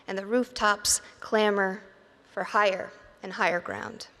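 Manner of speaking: measured poetry recital with long pauses; poem reading. Acted. Poet reads to audience about the flood, measured recital. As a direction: let each line land, then pause.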